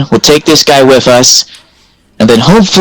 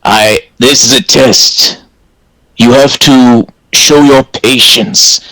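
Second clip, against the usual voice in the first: cult leader voice; 4 semitones lower than usual. Acted. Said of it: "evil cult leader voice and go".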